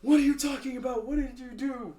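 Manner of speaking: high, loud interrogating yell; acted yelling. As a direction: demand answers at a shout, in character. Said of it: "He, he yells and says".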